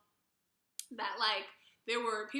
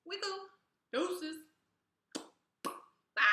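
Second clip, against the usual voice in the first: mock carefree, pitched much higher; breezy brush-off; 9 semitones higher than usual. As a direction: airily wave it off and leave. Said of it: "I'm like".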